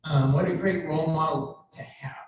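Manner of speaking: fighting back tears, halting; choking up. Real, not acted. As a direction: voice catching with emotion. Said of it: "I'm choking up".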